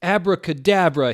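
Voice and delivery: high, loud spell cry; yelled spell. Acted. Vampire yelling a spell at Snape and Lupin. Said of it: "he yelled at Snape and Lupin".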